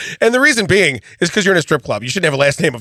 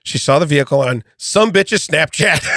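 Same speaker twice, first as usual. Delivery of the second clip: her voice. Retold or imitated. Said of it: "I'm gonna do it in her voice".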